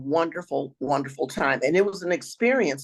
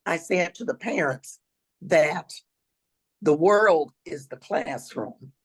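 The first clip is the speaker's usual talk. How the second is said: raspy voice. Real, not acted. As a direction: push the words through a rough throat. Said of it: "excuse my raspy voice".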